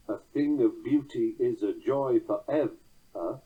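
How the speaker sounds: slow line with "ever" stressed first, weak last syllable; measured "a thing of beauty", ending on EV-er; weak-ending verse. Shown as a demonstration. Lecturer showing a weak ending, slow recitation finishing on "ever". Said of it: "find a monosyllabic word meaning ever".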